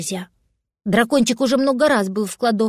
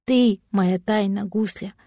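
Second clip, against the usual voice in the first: tender. Acted. Father tenderly to son.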